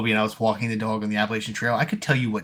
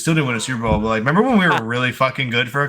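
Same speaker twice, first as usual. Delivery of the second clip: quick, louder, gushing fan voice; imitating nostalgic fan; 4 semitones higher, 4 dB louder, faster than usual. Mocking Lions fans reminiscing, quick louder gushing.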